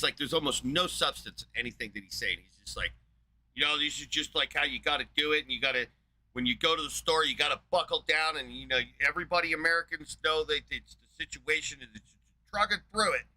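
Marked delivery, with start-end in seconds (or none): 3.5-13.2 mock pep talk. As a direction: parody a hollow, chirpy pep talk. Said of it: "random pep talk generator".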